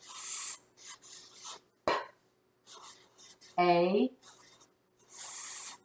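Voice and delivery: "S, P, A, S" with long gaps, unvoiced s and p; isolated phonics sounds. Shown as a demonstration. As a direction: say "S, P, A, S" one phoneme at a time. Checking word sound by sound.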